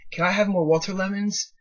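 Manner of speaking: put-on high, eager small boy asking; little kid voice. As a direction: ask sweetly like a four-year-old. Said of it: "And he's like".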